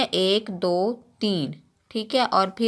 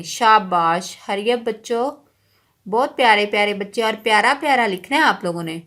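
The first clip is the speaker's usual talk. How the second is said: fast cheerful encouragement; 3 dB louder than usual. Real, not acted. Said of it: "encouraging children quickly".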